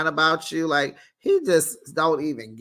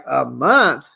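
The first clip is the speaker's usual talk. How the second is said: shocked; 6 dB louder than usual. Retold or imitated. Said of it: "she's like".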